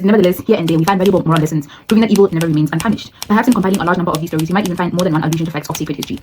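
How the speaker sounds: put-on rushed read-aloud of an old text, fast; fast book reading. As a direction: rattle through the quoted passage. Reads passage from the book.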